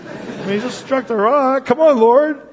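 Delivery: put-on a child protesting to the Lord on Moses's behalf, building up; pleading protest. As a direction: argue the case for Moses, rising to a cry. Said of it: "I'm thinking".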